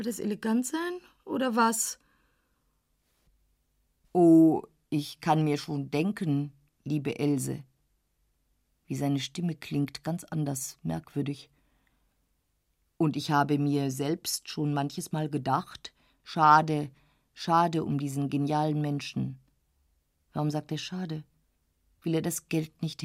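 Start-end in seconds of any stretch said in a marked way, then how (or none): 4.1-7.6 ein Hauch tiefer, gönnerhafter Herr; leicht gespielter älterer Herr. Acted. Dorsday spricht. 13.0-19.4 ein Hauch tiefer, gönnerhafter Herr; leicht gespielter älterer Herr. Acted. Dorsday spricht.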